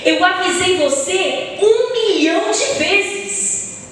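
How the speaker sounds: mais agudo e lento, marcando a impaciência; exasperado encenado. Retold or imitated. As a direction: como quem já cansou de avisar. Citando exagero, pessoa irritada. (impaciência exagerada, mais aguda e lenta)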